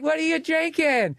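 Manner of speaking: very high, slow drawn-out question; piercing stripper voice. Retold or imitated. Stripper fishing for a drink, high and slow. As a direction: stretch it out high and sugary. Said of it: "had a voice that literally could break the glass".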